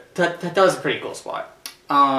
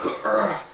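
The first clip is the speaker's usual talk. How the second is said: high-pitched grunt of exertion; effort grunt; 8 semitones higher than usual. Retold or imitated. Acting out Big Show climbing with Alberto, effort grunt. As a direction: grunt like hoisting a big opponent. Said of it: "so he's like".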